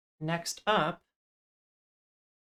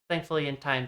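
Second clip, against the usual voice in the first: ordinary delivery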